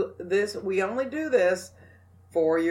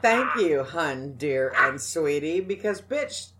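sassy. Shown as a demonstration. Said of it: "get a little sass in your pants".

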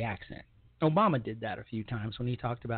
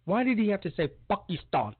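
higher, incredulous mock question; mock disbelief; 6 semitones higher, faster than usual. Mocking Obama's accent, baffled and incredulous. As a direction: act baffled at the odd pronunciation. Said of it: "I was like".

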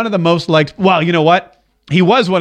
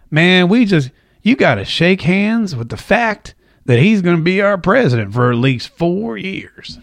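lightly imitated actor, drawn-out delivery; a hint of the actor's slow, stretched phrasing; Matthew McConaughey. Host quoting the actor's advice, lightly imitated drawl. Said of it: "he says".

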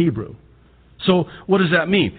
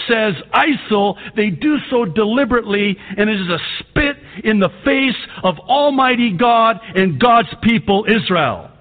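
preaching yell; 7 semitones higher than usual. Real, not acted. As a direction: thunder it out at the congregation. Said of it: "I'm sorry, I'm yelling".

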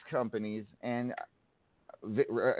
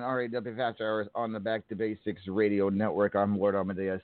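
radio announcer. Acted. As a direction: welcome listeners back on air. Host back from break.

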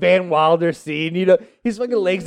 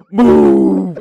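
louder urgent bark; shouted command; 2 semitones higher, 8 dB louder than usual. Retold or imitated. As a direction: shove past and yell it. Friend rushing out to bathroom.

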